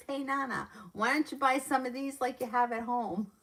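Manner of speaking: high-pitched impression of a cheeky kid; imitated nephew. Nephew to Nana in front of everyone at Kohl's, imitated high child voice. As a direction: call it out high, mimicking a little boy. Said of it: "he goes".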